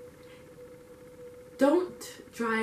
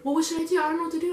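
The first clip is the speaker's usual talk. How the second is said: higher, mildly panicked imitation of dad; freaking out; 5 semitones higher, much faster than usual. Dad hearing about the drunk driver, mock freaking out. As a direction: imitate a flustered, helpless reaction. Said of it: "he's freaking out".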